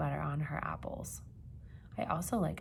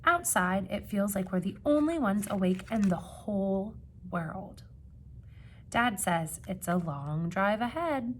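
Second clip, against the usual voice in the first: storybook reading; 4 dB louder than usual. A narrator's reading. Reading picture book to children.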